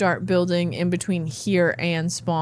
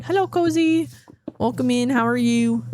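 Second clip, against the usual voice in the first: bright greeting; 5 semitones higher than usual. Real, not acted. Greeting a chat viewer.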